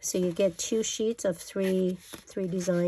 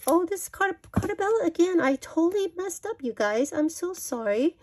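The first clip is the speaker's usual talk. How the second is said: flustered apology; 10 semitones higher than usual. Real, not acted. Realizes she mixed up brands.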